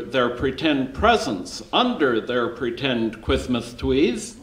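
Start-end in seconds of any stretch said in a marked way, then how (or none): 3.2-4.4 put-on CHRISTMAS TREES said little-kid style, r's turned to w's; childish lisp. Storyteller describing the preschoolers' pretend trees, childish lisp on "Christmas trees".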